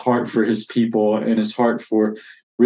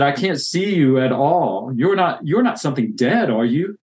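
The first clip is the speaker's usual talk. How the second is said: pleading in fear; 3 semitones higher than usual. Acted. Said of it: "feeling sorry for himself again".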